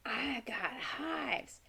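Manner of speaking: imitating a worried child, high and soft; hushed, drawn-out little mock wail; mock freaking out. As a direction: play a fretful kid, half-whispered and slow. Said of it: "he was freaking out".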